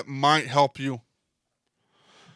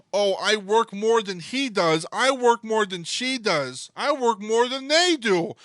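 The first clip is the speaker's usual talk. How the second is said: mocking whine; 5 semitones higher, slower than usual. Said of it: "nobody wants to do that because".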